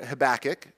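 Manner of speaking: "Habakkuk" stressed on the middle syllable, huh-BACK-uk; alternative pronunciation. Shown as a demonstration. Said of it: "you pronounced it differently".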